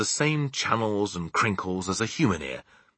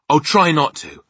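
Sophie; 9 semitones higher, 10 dB louder than usual. Acted. Sophie's reply in story.

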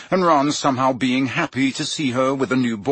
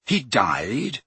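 shocked. Acted. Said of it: "repeated Harry, shocked".

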